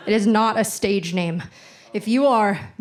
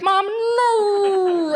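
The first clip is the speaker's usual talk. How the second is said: high, loud cry of Mom no; panicked plea; 10 semitones higher, 5 dB louder than usual. Retold or imitated. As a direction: beg in sheer panic, voice cracking. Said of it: "I'm just like".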